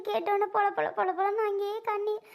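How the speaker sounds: high tearful recounting; அழுகை. Acted. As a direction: tell it while breaking into tears. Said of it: "அழுகாத சுந்தரி". (கண்ணீரோடு சொல்லும் குரல்)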